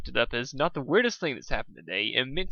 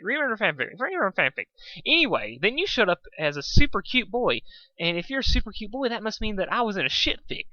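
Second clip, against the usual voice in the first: bubbly high voice; 5 semitones higher than usual. Acted. Pinkie high bubbly rambling.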